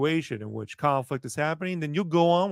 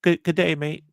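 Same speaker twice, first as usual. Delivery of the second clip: put-on Australian accent. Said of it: "my favorite thing to do in Australia was to say".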